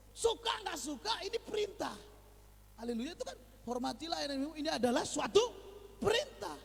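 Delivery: rising high, loud insistence on perintah; emphatic preaching. Acted. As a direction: drive home that it's a command.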